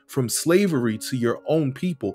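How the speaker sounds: fervent scripture reading. Acted. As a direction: pray David's words as if they were your own, swelling with awe. Reads scripture passage aloud.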